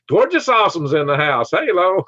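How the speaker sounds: loud, high, rap-style hype greeting; hyped shout-out. Pretend. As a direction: announce a guest like a hype man.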